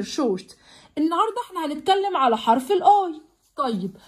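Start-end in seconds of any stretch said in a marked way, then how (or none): 0.0-0.6 شورت said briefly, lower and softer; snatch شورت short and drop it; short snatched sound. Shown as a demonstration. Teacher showing children a short vowel, snatched short. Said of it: "وساعات بنطقها خطف".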